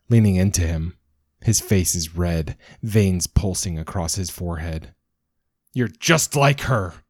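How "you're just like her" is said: screaming. Acted. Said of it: "he screams".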